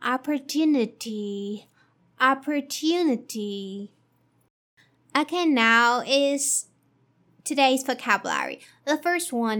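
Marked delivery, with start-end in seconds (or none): 0.0-3.9 opportunity as ah-per-TOO-nuh-tee. Shown as a demonstration. Teacher putting opportunity together. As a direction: say opportunity in full. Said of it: "combining all together".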